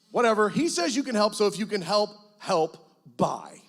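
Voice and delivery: mock prayer. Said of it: "let me tell you how the prayer went".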